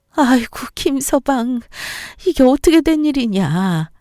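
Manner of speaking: a lightly voiced mother, sighing then rising in anger; lament, then fume at the in-law; upset old mother. Mother recounting the fight. (속상한 친정엄마 목소리)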